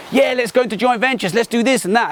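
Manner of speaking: hammed-up eager rush into a deal; naive excitement. Naive new partners rushing into a deal, mock eager. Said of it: "We're probably a bit naive".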